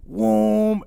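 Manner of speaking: imitated crash whoosh. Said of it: "slides and goes".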